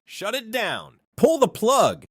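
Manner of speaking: mock frantic shout; retold shouting. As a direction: shout orders in a panic. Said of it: "I can hear him shouting".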